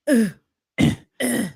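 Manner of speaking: short effortful grunts; imitated grunts. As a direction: mimic a man straining and giving up. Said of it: "He just goes".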